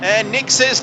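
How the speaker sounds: rising excited race call; motorsport commentator. Acted. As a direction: call the start with building energy.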